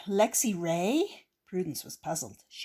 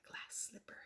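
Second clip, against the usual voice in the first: breathy hushed reveal after a gasp; 23 dB quieter than usual. Real, not acted. Reading to kids, hushed awe at a find. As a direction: hush it like a secret discovery.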